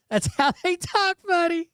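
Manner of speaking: high, squeaky voice breaking into laughter; amused agreement. Retold or imitated. Parent agreeing with his kid about the accent, laughing high.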